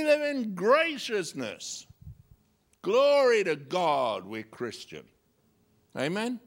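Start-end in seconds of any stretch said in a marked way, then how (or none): none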